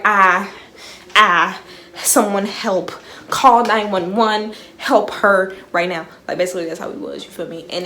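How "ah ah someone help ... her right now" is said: loud, drawn-out mock cry for help; half-hearted panicked yell for help. Friends call for help as she claims she's dying, mock panic. Acting out their panicked reaction.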